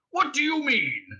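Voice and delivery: high, baffled brute voice; booming Vogon. A narrator's reading. Guard questioning his prisoner, booming. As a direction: demand it, booming and puzzled. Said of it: "he boomed".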